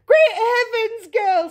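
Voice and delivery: high, loud, drawn-out screech. A narrator's reading. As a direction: screech in slow, stretched horror. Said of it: "screeched Missus Beauregard".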